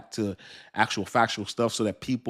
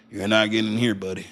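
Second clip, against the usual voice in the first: a hint of a put-on Texan as China; lightly voiced Texan bouncer; mild put-on country voice; Chinese Texan voice. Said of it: "this is a Chinese, uh, Texan".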